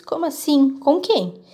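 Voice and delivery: a father thrown off balance on the phone; father shocked by the caller, voice gone odd; strange, shaken voice. Acted. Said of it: "voz fica toda esquisita".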